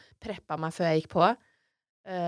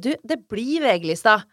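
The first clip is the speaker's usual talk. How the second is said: louder, higher excited announcement; begeistret sjef; 4 semitones higher, 9 dB louder than usual. Retold or imitated. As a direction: break big news with drawn-out punch. Sjefen ringer med stor nyhet. (opprømt kunngjøring)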